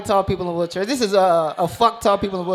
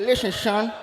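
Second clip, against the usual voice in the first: put-on New York accent, s turned to sh; New York coach; 3 dB quieter than usual. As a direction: sound like a New York coach styled after a rap group. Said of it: "he sound like he in the Wu-Tang Clan".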